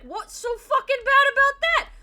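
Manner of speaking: slow, high-pitched yell; exasperated outburst. Retold or imitated. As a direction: imitate a partner blowing up in protest. Imitating partner's exasperated outburst.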